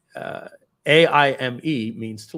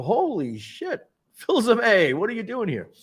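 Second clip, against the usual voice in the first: excited greeting; 9 semitones higher than usual. Retold or imitated. Old colleagues greeting him.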